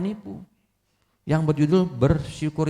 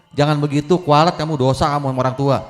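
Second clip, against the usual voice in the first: scolding; 5 dB louder than usual. Acted. Tetangga menegur anak.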